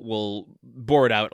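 "bore" given a jokey extra push; stress on bore. Real, not acted. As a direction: lean hard on the word "bore". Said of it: "emphasis on bore".

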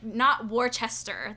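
Worcester said in full, syllable by syllable; spelled-out pronunciation. Shown as a demonstration. Host showing how the town is not said, spelled-out pronunciation. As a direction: say Worcester as written, "wor-chess-ter". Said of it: "They don't say that in".

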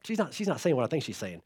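hushed, low disbelief; disbelieving parents. Retold or imitated. Parents privately doubting what their daughter said, hushed disbelief. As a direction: murmur it to each other in denial. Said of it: "Mandy and I are both like".

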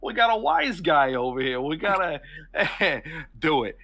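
high, jeering wise-guy taunt; mocking thug. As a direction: taunt the mouthy stranger. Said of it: "the one looking at you goes".

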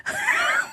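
high, quiet laugh; real laugh at a silly name; amused laugh. Real, not acted. Host reading a silly listener name, amused laugh.

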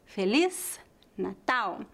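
slow "Feliz Natal", the Z of "Feliz" hissed as S; final Z as S. Shown as a demonstration. Teacher showing the letter Z, "Feliz" ending in an S sound. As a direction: end "Feliz" on a clear S sound, then "Natal", unhurried. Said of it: "é pronunciada como um S".

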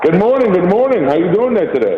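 echoey, like in a bathroom; phone call from an echoing room. Real, not acted. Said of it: "You sound like you're in the bathroom".

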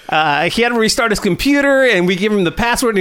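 normal talking voice

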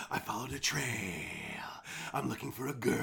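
low, soft, halting mock hero read; weird line reading. Imitating the hero's line for his co-host, odd low read. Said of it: "this is a great read".

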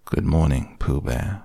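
Eeyore's mournful good morning; gloomy. Acted. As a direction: greet him like nothing is worth it. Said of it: "said Eeyore gloomily".

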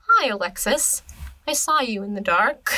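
creepily singsong, imitating her; creepy. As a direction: play the eerie little sister. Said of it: "she's just really creepy".

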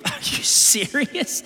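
breathy half-laughed disbelief; disbelieving laugh. Real, not acted. Laughing at the disciples' nerve, half whispered. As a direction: laugh it out, slow and soft.

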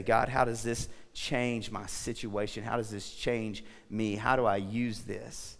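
soft, low, slow questions to God; reflective prayer. Acted. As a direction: ask God quietly, taking time over each question.

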